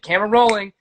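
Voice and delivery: high, loud call of camera rolling; called out cue. Retold or imitated. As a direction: shout the cue across the set like crew. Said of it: "they said".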